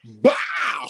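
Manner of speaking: shouted bow for the slap; mock slap sound. Teller retelling mom's slap, shouted mock sound. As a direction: bark out the slap noise. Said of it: "I said".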